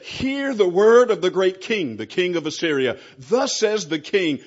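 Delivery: loud, carrying herald's call to the people on the wall; loud proclamation. Acted. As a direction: proclaim it like the Assyrian envoy calling out over the wall. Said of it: "called out in a loud voice".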